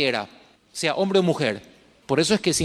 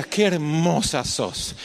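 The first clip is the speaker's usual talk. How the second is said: tender compliment to daughter; 2 semitones lower, much slower than usual. Retold or imitated. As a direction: say "Qué hermosa sos" slowly and tenderly to the daughter. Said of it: "Le decía". ("Qué hermosa sos" dicho despacio y con ternura)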